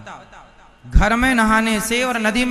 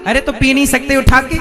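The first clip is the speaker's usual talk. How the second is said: louder, sharp scolding; wife scolds husband asking for water, irritated; mock irritated wife; 3 semitones higher, 5 dB louder than usual. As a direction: brush him off crossly. Wife snaps at thirsty husband.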